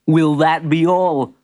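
slow, amused shopkeeper; lightly tickled character voice; laughing. A narrator's reading. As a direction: ask it with a touch of amusement. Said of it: "laughed Mister Misfit".

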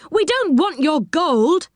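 high-pitched, slow protest; crying out. A narrator's reading. Rick answers the angry enchanter, crying out. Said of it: "cried Rick".

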